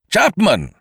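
high, loud cry for help. A narrator's reading. Kesselbach calling his secretary in growing fear, crying out. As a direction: call out urgently for your man. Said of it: "Mister Kesselbach cried again".

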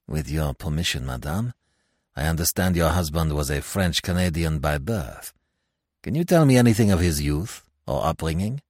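soft-spoken French magistrate. Acted. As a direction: ask it courteously, a notch down. Magistrate questions the widow.

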